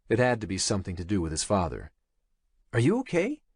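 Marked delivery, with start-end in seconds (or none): 2.7-3.4 breathless worry. Acted. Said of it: "Jake asked breathlessly".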